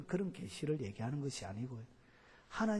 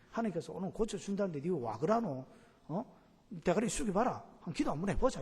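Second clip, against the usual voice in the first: higher, louder, rough Gyeongsang-style bullying; pushy bossy demand; 4 semitones higher, 4 dB louder than usual. Retold or imitated. Preacher mimics a pushy healer bullying a sick man, loud and bossy. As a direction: push the sick man around, forcing him to pray. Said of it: "이렇게 막 해가지고 그를 기분 나쁘게".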